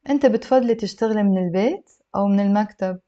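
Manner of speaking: whole question in a fluent flow; connected model reading; slightly brisk, few pauses. Shown as a demonstration. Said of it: "I'll read it a little bit faster".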